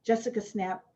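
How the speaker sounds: author's reading voice; story reading. Acted. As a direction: reads her own book to the listeners. Author reads novel passage aloud.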